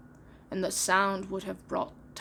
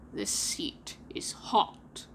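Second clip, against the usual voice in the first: alarmed whisper; 5 semitones lower, 3 dB quieter, much slower than usual. Acted. Hook alarmed, hushed.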